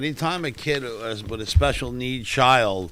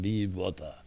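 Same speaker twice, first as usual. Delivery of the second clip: mock Bruce Lee; 5 semitones lower, 8 dB quieter than usual. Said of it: "He just talked like".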